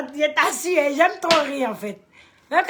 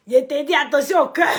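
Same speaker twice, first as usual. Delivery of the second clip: laughing while talking; 3 semitones higher, 7 dB louder than usual. Real, not acted. Laughing at a chat comment.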